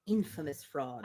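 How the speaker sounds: slow whispered relish of the phrase. Real, not acted. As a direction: whisper it, savouring each word.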